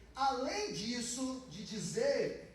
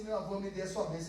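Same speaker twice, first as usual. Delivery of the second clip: spoken fast; 2 semitones lower, faster than usual. Shown as a demonstration. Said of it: "a gente não fala assim".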